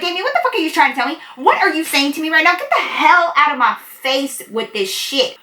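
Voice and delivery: high, fast and furious; fast angry outburst. Retold or imitated. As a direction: tear into him before he finishes. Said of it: "I'm being loud as fuck".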